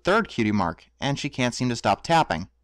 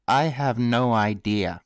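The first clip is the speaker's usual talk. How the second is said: deadpan; 3 semitones lower, slower than usual. Real, not acted. Mocking the plot.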